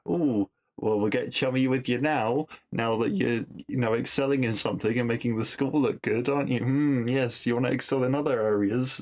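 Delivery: lightly voiced over-chummy teacher; mildly mock a teacher cosying up to a pupil; a hint of a fawning schoolteacher. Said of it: "behaviour of some teachers".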